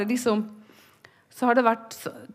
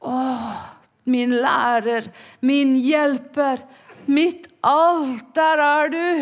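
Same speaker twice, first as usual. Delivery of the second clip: joyful cry; 4 semitones higher, 4 dB louder, slower than usual. Retold or imitated. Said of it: "ropte ved graven".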